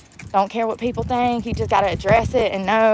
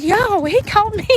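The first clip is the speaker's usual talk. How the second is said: higher, incredulous yo; shocked repeat; 9 semitones higher than usual. Retold or imitated. Retelling repeating the creep's insult in shock. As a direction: repeat it in stunned disbelief. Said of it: "I repeated it".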